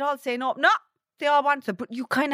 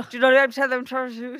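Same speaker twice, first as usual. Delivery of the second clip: words running into a mumble; mumbling. Real, not acted. Friend fudging an age to her teasing pal, mumbling. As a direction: mumble through the admission. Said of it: "you're mumbling even the wrong age".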